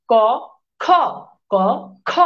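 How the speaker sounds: ক with no breath, then খ with a hard puff of air; k versus kh. Shown as a demonstration. Teacher blowing a paper note with খ. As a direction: alternate breathless ক and puffed খ. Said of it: "যখন খ উচ্চারণ করছি তখন টাকাটা কিন্তু পড়ে যাচ্ছে".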